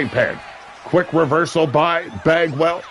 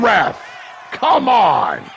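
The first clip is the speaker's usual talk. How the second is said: frustrated yell; 5 semitones higher, much slower than usual. Real, not acted. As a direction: keep shouting at the ref. Yelling at the referee.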